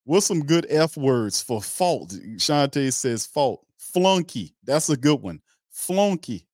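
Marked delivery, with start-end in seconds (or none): 3.8-4.5 higher, punchy one-word verdict; gleeful shout. Real, not acted. Host relishing the chat's insult, a gleeful higher call. Choosing F words with chat. 5.7-6.4 higher, punchy one-word verdict; gleeful shout. Real, not acted. Host relishing the chat's insult, a gleeful higher call.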